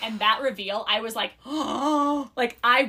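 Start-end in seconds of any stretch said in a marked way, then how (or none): 0.9-2.6 slow with a mock shocked gasp; imitated gasp. Reader retelling her first read of the reveal, mock gasp.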